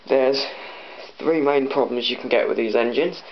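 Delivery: shaky voice from the cold; shivering. Real, not acted. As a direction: talk while shivering. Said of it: "so I'm shaking a little bit, I'm cold".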